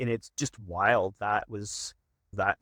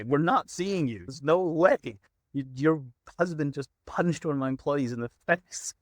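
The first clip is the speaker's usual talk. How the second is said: higher, insistent refusal; indignant refusal; 4 semitones higher than usual. Retold or imitated. Boss turning away the puncher's wife, indignant refusal. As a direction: refuse them outright, indignant.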